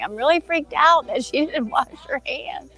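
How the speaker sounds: high, amused freaked-out line; laughing disgust. Retold or imitated. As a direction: giggle through the horror. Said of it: "I'm like".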